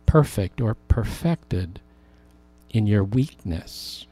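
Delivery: the Lord speaking. Retold or imitated. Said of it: "the Lord said".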